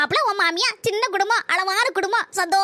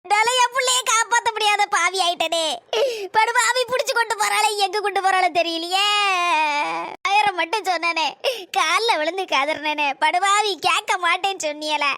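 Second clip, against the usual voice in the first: acted wailing mother; grieving, self-blaming wail; tearful lament. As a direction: draw out the ends in a sob. Mother laments son taken away.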